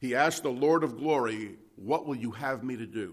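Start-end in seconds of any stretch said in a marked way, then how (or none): 1.8-3.1 put-on trembling, quivering voice. Retelling Paul lying in the dust asking the Lord, imitating a trembling, quivering voice. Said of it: "In a trembling, quivering voice".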